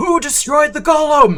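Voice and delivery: very loud, shrill, high-pitched shout. Voicing a character calling out from another room: calling out from another room. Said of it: "Kalido's voice call out from the room".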